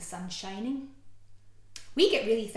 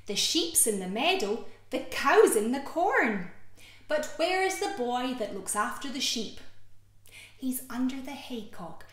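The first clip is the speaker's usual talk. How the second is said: lilting rhyme, slow swell on the cow's in the corn; nursery rhyme; 3 semitones higher than usual. Acted. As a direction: read it for little ones. Reading a rhyme to children.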